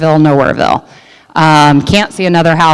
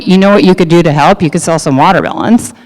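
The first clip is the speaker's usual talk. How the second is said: sarcastic; faster than usual. Retold or imitated. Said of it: "I said very sarcastically".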